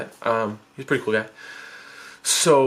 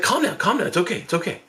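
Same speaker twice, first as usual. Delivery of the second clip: quick, higher-pitched hushing reassurance; urgent calming; 6 semitones higher, faster than usual. Retold or imitated. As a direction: hurriedly settle someone down. Brother hushes his panicking sibling.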